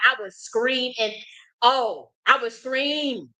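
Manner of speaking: "scream" stretched out long and slow; drawn-out emphasis on SCREAM. Real, not acted. Woman confessing she lost control of her emotions, emphatic drawn-out "scream". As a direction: lean hard on "scream", holding the vowel. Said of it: "when I say I had no control".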